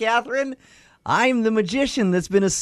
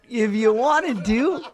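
magician voice. Acted. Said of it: "Please stop using the put-on voice".

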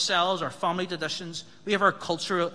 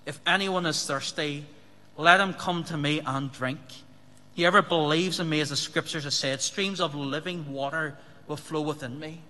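loud voice. Retold or imitated. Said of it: "said in a loud voice".

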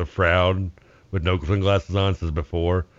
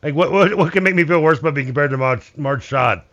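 high, strained, wheezy voice; wheezing voice; 6 semitones higher, 4 dB louder than usual. Acted. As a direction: squeeze the words out wheezing. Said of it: "Wheezing voice".

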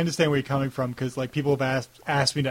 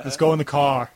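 Long Island vowels on "car"; Long Island accent; 3 dB louder than usual. Shown as a demonstration. Podcaster mocking own speech, Long Island accent. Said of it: "my terrible accent there".

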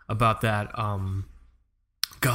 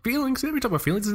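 mock surprise; 11 semitones higher, faster than usual.

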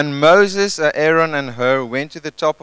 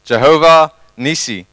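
called out to a neighbour; 7 dB louder than usual. Shown as a demonstration. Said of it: "Say to the person next to you".

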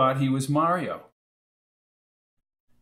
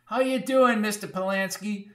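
put-on old landlady; 8 semitones higher than usual. A narrator's reading.

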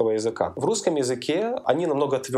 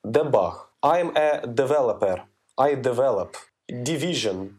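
Russian accent. Shown as a demonstration. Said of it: "в русском «д» очень тупое".

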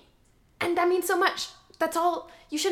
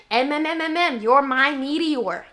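stammering excitedly; 6 dB louder, slower than usual. Acted. Stammering toward the big line.

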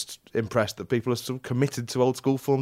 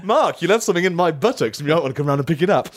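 mock pleading voice; 7 semitones higher, 6 dB louder, faster than usual. Mock voicing of buttocks misreading.

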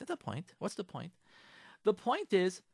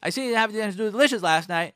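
snide husband; 6 dB louder than usual. Acted. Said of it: "he says to you".

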